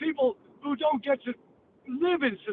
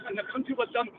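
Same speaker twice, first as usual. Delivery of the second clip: usual speaking voice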